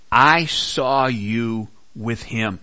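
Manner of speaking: slow, pointed accusation, each word laid down. Retold or imitated. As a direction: point the finger, slowly. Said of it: "eyewitness accusation".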